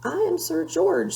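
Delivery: high, loud squeaky knight; a skinny knight squeaking his name. A narrator's reading. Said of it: "squeaked a thin, shiny knight".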